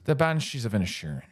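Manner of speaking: quick, light Irish accent on the title. Shown as a demonstration. Asked by cohost, says title in Irish accent. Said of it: "Can we hear that in an Irish accent".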